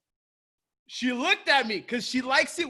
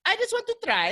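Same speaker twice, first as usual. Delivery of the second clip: high-pitched insistent plea; imitated pleading mom; 13 semitones higher than usual. Retelling mom's insistent plea.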